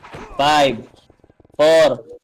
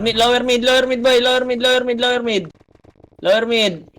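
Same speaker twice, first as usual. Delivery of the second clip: raised, urgent repeated game call; urgent callout; 5 semitones higher than usual. Real, not acted. Squad leader directing teammates to a position, urgent callout. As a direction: call the position out insistently, pitched up.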